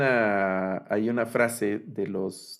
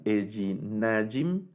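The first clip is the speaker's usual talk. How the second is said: "Ejinajim" slowly, stressed on "na"; penultimate stress; slower than usual. Shown as a demonstration. Teacher giving dual examples, "Ejinajim" stressed on the second-to-last syllable "na". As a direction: draw out the accent on "na" in "Ejinajim". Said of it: "el acento va en la penúltima sílaba".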